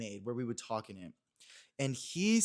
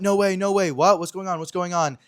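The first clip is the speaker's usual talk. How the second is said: shocked classmates; 5 semitones higher, 11 dB louder than usual. Retold or imitated.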